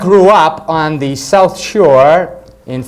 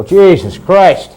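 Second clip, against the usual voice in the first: mock swearing; 3 semitones higher, 4 dB louder, much slower than usual. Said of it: "when they get mad".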